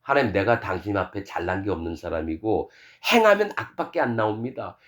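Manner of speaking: lightly acted humility before God; humble confession. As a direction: speak as one who is lowly before God. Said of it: "마음이 낮아져 있으니까".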